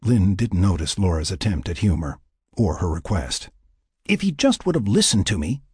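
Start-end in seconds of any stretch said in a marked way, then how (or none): 4.1-5.6 higher-pitched, frustrated regret; lamenting. A narrator's reading. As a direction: lament what might have been. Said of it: "Lynn lamented".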